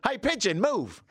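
high-pitched call out the window; retold cabbie's yell; imitated driver yelling. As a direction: shout it at a bird in the road. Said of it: "wound down the window and went".

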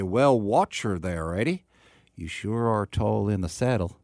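slow mock Texan with British overtone; British person doing Texan. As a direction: imitate Brits attempting a Texan drawl. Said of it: "use their best British accent".

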